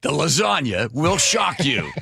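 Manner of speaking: slow, dramatic tease through a laugh; clickbait video narrator. Pretend. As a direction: hype it up like a clickbait thumbnail. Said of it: "Wow, that's a tease".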